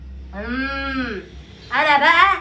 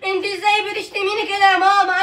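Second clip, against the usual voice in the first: mock crying. Son fakes crying at mother.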